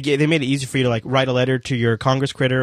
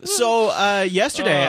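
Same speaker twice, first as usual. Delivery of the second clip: laughing; 5 semitones higher, much slower than usual. Real, not acted. Still laughing after the bit.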